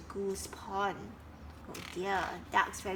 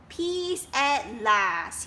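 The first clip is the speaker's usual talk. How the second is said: contented; 6 dB louder, much slower than usual. Acted. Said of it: "he thought".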